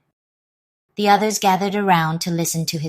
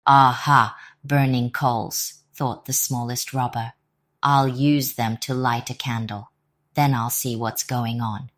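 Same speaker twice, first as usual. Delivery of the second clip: sly robber; 5 semitones lower than usual. Acted. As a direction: muse like a sneaky thief. Scheming robber thinks aloud.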